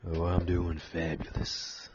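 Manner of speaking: lightly voiced Texas cowboy. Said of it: "I love the cowboy voice".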